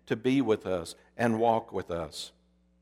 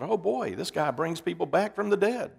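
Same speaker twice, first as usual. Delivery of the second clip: mild mock amazement, pitched up; excited; 4 semitones higher than usual. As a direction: quote an excited onlooker, voice lifted. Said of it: "they were excited".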